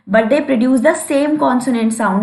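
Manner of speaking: slow, deliberate reading of the definition; dictating pace; slow dictation. Shown as a demonstration. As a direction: read it out word by word for notes. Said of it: "teacher dictating definition slowly".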